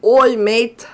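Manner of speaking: loud Aussie Oi, mate call; Australian accent. Shown as a demonstration. Streamer giving chat the Australian ara ara, loud Aussie greeting. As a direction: bark Oi, mate like a cheery Aussie bloke. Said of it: "Australian version of ara, ara".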